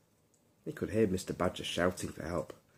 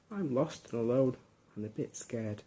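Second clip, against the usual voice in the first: a higher little puppy voice, a touch scared; bedtime-story puppy, higher and a little scared; small lost puppy; 5 semitones higher than usual. Acted. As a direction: speak as a lost little pup.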